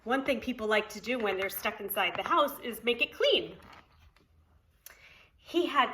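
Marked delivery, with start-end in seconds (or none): 5.4-5.9 lively, sing-song storybook reading; reading to children. Acted. Preschool teacher reading Poppleton to children, storybook voice. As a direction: read it aloud to the preschool class. Reads picture book aloud.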